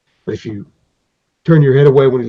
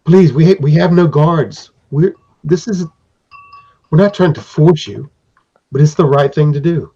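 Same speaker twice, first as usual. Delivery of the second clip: pleading craftsman. Acted. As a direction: win back the hero's trust gently but urgently. Craftsman reassuring hero.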